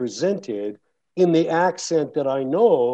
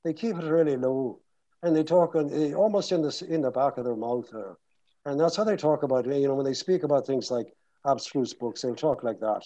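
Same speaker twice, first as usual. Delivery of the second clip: Dublin accent kept in the back of the mouth. Shown as a demonstration. Actor explaining Dublin speech by example, Dublin accent. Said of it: "basically in Dublin, they talk like that".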